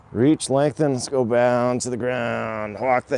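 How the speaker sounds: upbeat fitness instructor cue; called-out cue. Real, not acted. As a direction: call the cue out across the room.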